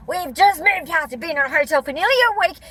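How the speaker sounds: high, exasperated mock protest; stressed. Protesting about a lost receipt after moving, stressed. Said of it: "I'm really stressed".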